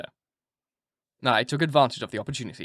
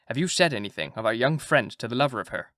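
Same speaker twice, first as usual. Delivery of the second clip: put-on Dutch accent. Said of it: "my Dutch accent".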